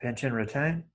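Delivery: soft, brief cues between long silences; quietly pace each breath, a touch of meditation voice; guided breathing. Real, not acted. Teacher counting students through nostril breathing, soft meditation guiding.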